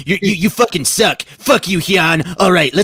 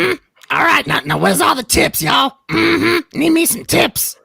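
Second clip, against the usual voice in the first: high, put-on pimp voice asking for tips; Pimp Monk impression; 13 semitones higher, slower than usual. Streamer begging the chat for tips in a high pimp voice. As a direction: strut it like a pimp hustling for tips. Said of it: "Do your Pimp Monk".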